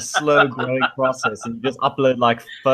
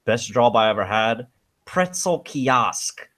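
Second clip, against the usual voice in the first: Christopher Walken impression; slower than usual. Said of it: "Christopher Walken where he's telling".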